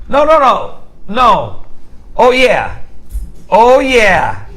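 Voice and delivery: building mock breakdown, rising pitch, laughing; mock rant breaking into laughter; hammed-up meltdown. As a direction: lose your mind over nothing, then crack up. Acting out losing your mind.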